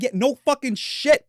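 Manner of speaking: mock retort. Retort to kid.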